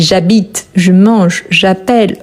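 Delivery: "habite", "mange", "appelle" ending on their last consonant; silent final E. Shown as a demonstration. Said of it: "On ne prononce pas les E".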